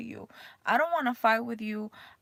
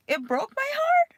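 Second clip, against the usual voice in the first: heartbroken; 14 semitones higher, 5 dB louder than usual. Real, not acted. Recalling daughter's hurtful words.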